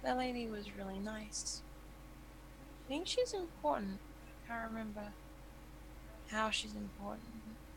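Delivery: hushed, drowsy, very quiet sleepy murmur. Retelling a character's words over a body on the ground, imitating a sleepy voice. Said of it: "this kind of like sleepy voice".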